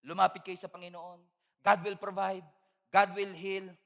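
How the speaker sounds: pastoral reassurance. Retold or imitated. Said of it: "ang sasabihin ko sa kanila".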